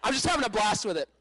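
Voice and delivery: laughing. Real, not acted. Laugh heard while telling.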